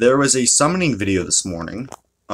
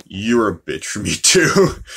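laughing; 4 dB louder, slower than usual. Real, not acted. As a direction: laugh through the last word. Joking curse ending in a laugh.

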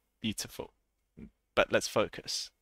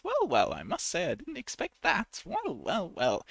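much higher, posh and amazed; posh surprise; 8 semitones higher than usual. Shown as a demonstration. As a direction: gasp out a posh surprised remark. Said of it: "It's a little bit posh".

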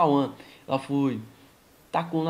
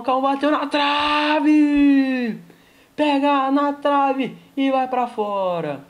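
excited near miss; 3 semitones higher, slower than usual. Acted.

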